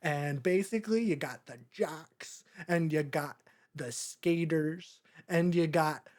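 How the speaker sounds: mildly put-on worldly classmate voice; streetwise older kid. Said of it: "and he's like".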